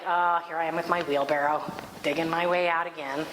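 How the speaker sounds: low, weary-sounding sigh of resignation; resigned. Retold or imitated. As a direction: here we go, resigned to it. Resigned retelling of own plight.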